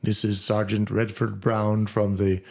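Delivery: slow, faintly attempted Bahamian accent; a police sergeant in a weakly imitated Bahamian accent; poor Bahamian accent. Retelling the prank call from the police, half-hearted Bahamian accent. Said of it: "in his Bahamian accent, which I can't, you know, emulate very well".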